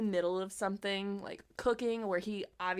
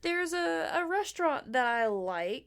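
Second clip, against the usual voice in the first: much higher, louder, breezy mock voice; airy mock chirp; 8 semitones higher, 4 dB louder than usual. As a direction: parody a cheerful casual search. Mock airy search for restaurant.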